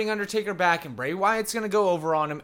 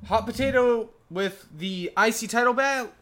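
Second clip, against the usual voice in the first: read notes; 6 semitones higher, 3 dB louder than usual. Shown as a demonstration. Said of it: "I'm sorry".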